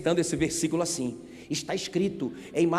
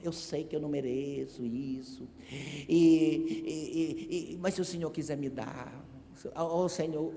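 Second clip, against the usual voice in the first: timid prayer; 8 dB quieter than usual. Retold or imitated. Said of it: "dizendo assim".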